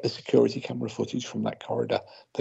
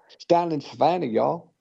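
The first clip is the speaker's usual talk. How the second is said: put-on failed Southern accent; 4 semitones higher than usual. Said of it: "Oh, that went Australian".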